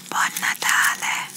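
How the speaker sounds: slow, forceful stage whisper. Pretend. Doctor testing whether the patient hears over noise, whispered. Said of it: "if you can still hear as I whisper".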